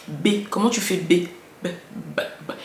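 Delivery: sounding out B, firmly; mimed letter sound. Shown as a demonstration. A mother coaching her child's reading, sounding out the letter. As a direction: say the letter to a small child, over-articulated. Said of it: "N'ayez pas peur de mimer fort".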